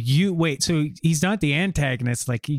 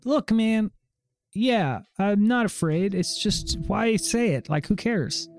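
high, trying to act unafraid; nervous kid voice; 6 semitones higher than usual. Acted. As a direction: brush it off, but a little spooked. Kid playing it cool.

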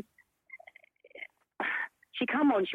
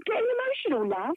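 mock self-questioning; 12 semitones higher than usual. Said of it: "I'm thinking".

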